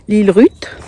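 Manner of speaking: "L'île Ruth" said the French way, l-ile-rute; Lion Brand in a French accent, "L'île Ruth". Shown as a demonstration. Vlogger jokingly says the brand name with a French accent. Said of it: "avec l'accent français".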